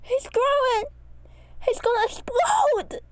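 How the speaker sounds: high, loud, slow panic; panicked shout. A narrator's reading. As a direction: scream the warning. Panicking character.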